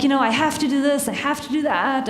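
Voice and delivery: lightly annoyed imitation; mocking his excuse. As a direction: parrot his excuses with a touch of irritation. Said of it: "getting a little annoyed by the "I have to".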